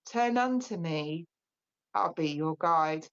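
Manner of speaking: slow, gentle poem recital with long pauses; poem reading. Acted. Medium reads a comfort poem to her audience, slow and gentle. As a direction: read it slowly to grieving listeners.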